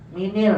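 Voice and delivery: MINIL with an i wrongly linking min to al; wrong linking vowel. Shown as a demonstration. Teacher rejecting a guessed reading, MINIL with an i. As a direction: say MINIL, i in both syllables. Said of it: "nggak bisa".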